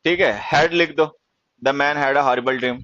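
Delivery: very slow, word by word dictation. Shown as a demonstration. Teacher dictating slowly to students, word by word.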